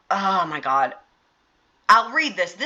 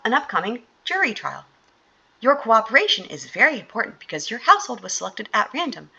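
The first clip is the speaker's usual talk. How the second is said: lightly raised, sing-song survey caller voice; funny voice; 3 semitones higher than usual. Pretend. Mock-reading the survey script to viewers as a chirpy caller. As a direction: play a chirpy phone surveyor, a bit higher. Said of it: "should I do it in a funny voice?".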